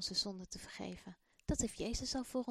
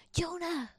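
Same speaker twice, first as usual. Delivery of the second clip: loud, high questioning shout; boy calling out the prophet's name; 8 semitones higher, 6 dB louder than usual. Acted. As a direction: call the name out, half asking. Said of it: "riep Malik vragend".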